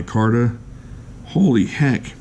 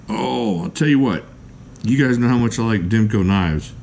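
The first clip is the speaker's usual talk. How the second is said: normal talking voice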